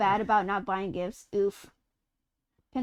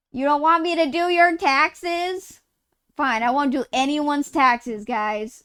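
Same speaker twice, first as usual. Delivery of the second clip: mock offended; 3 semitones higher, 4 dB louder than usual.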